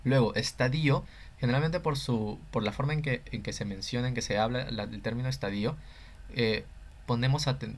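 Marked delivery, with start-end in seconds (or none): 0.3-1.0 estadio said es-ta-DÍ-o, accent on the I; stress on I in estadio. Shown as a demonstration. Teacher introducing a commonly misaccented term, estadio stressed on the I. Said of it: "tendemos a tener un acento en la I". 5.3-5.8 estadio as es-ta-DÍ-o, I accented; stress on I in estadio. Shown as a demonstration. Teacher showing the common habit, estadio stressed on the I. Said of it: "tendemos a tener un acento en la I".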